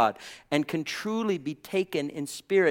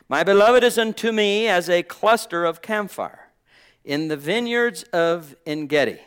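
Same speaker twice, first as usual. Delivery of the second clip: loud, raised opening on the verse; scripture declamation; 4 semitones higher, 7 dB louder than usual. Acted. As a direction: proclaim the verse, high and loud, then settle. Reads verse fourteen aloud, declaiming.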